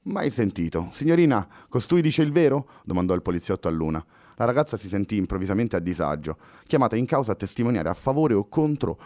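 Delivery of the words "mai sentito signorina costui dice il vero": a touch higher and louder, skeptical cop; officer asking the girl to confirm; doubtful policeman. Acted. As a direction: brush him off, then press the girl.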